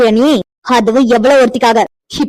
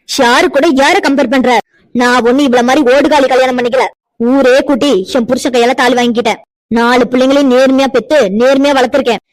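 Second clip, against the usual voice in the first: louder, indignant and hard; outraged tirade; 3 dB louder than usual. Acted. Mother-in-law rages at Pavithra, outraged. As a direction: defend her honour in fury.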